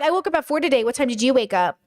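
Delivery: a touch of smug one-upping, matter-of-fact; lightly brag, then turn it on them; bragging. Shown as a demonstration.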